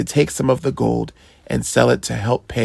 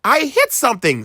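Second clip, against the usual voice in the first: high, fast excited cry; a boy who just struck something; excited shout; 12 semitones higher, faster than usual. A narrator's reading. Boy calling to his parents, excited high shout. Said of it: "screamed Sandy".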